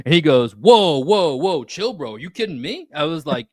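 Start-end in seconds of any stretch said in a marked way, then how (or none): 0.6-2.9 high, loud imitation of an affronted neighbor; alarmed protest. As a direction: act out a startled backing-off, pitched high. Neighbor reacting to being yelled at.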